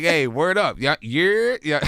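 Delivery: playful fake New York accent; hammed-up New York greeting. Shown as a demonstration. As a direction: try on New York street slang accent. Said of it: "You sound like Desus and Mero right there".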